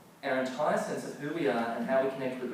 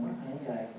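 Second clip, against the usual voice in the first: little inner voice; 6 dB quieter, much faster than usual. Retold or imitated. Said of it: "a little voice in my head going".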